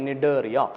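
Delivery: teacher demonstrating നിഡേറിയ without a C sound; silent C. Shown as a demonstration. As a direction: model നിഡേറിയ from the N, C unspoken. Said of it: "pronounce ചെയ്യുന്നത് നിഡേറിയ എന്നാണ്".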